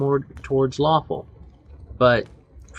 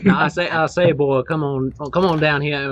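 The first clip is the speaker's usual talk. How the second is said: Foghorn Leghorn; 3 semitones higher, 4 dB louder than usual. Retold or imitated. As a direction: boom it like the cartoon rooster. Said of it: "gotta work on my foghorn leghorn".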